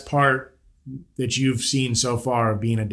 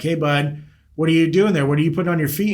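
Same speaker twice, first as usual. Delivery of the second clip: higher, louder retold question to a child; parent quizzing toddler; 4 semitones higher, 3 dB louder, faster than usual. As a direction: lightly act out a parent checking on a little one. Parent voiced questioning small child.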